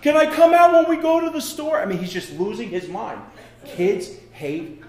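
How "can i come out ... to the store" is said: put-on higher, louder whining child, dragged out; whiny crying kid. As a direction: wail like a kid stuck in his room. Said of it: "he said".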